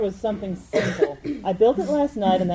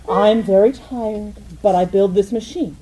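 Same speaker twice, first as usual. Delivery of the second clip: a hint of drowsy, acting out going to bed; sleepy reenactment. Inventor acts out building the clank, then going to bed, lightly sleepy. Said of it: "acting out last night".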